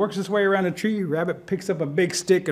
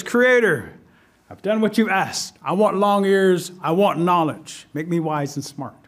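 lightly voiced rabbit, slow deliberate requests; petitioning rabbit; slower than usual.

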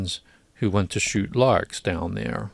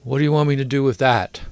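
quick, higher disdainful question; disdainful murmur; 4 semitones higher, 4 dB louder, faster than usual. A narrator's reading. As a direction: toss it off with mild disdain. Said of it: "with disdain, murmuring".

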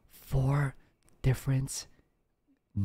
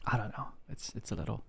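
talking quieter; 9 dB quieter than usual. Real, not acted. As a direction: keep it down to rest the throat. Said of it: "have to talk like this".

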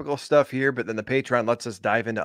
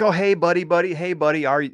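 mock over-friendly greeting, higher and louder; fake buddy; 5 semitones higher, 4 dB louder than usual. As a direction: put on a loud, phony pal act. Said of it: "people who are fake".

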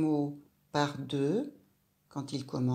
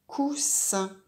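"Coussin" revealed brightly, a bit higher; word revealed; 4 semitones higher than usual. Shown as a demonstration. Teacher revealing the answer "Coussin" to the child, pleased. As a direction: announce "Coussin" like a solved riddle. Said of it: "et moi je vais lire la suite".

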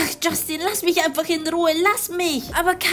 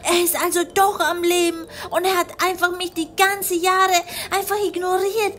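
put-on lightly higher, stunned young woman; a hint of a girl seeing her lost love; young woman character; 3 semitones higher than usual. Kylie watching Justin sit with Antonia, lightly higher voice.

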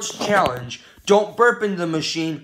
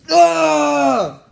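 frustrated yell; 6 semitones higher, 6 dB louder than usual. Pretend. Exasperated noise at the game.

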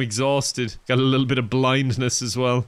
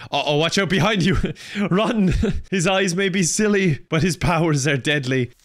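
mock-dramatic warning; 4 semitones higher, 3 dB louder than usual. Dramatic warning of googly-eyed foe.

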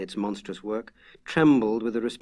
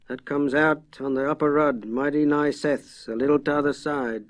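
softly spoken farmer; 4 semitones higher, 4 dB louder than usual. Acted. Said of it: "spoke softly".

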